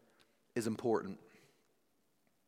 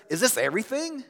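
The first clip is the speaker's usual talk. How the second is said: higher-pitched, let-down question; dissatisfied; 5 semitones higher than usual. Acted. Child on birthday after opening presents, dissatisfied. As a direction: ask it like a disappointed child. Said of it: "One way expresses dissatisfaction".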